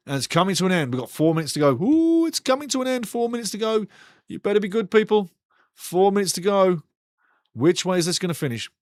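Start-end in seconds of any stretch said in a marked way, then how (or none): 1.7-6.8 much higher, squeaky with excitement; excited squeal. Real, not acted. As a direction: wind up the tension as the clock runs out. Match about to end.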